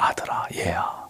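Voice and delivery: very soft, affectionate call; tender. Acted. Understanding father to his elder son, tender. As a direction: call the son gently, hushed. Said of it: "다정하게 큰아들을 부르고 있습니다".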